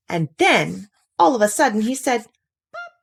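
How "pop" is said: cork pop. Acted. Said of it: "as if a cork".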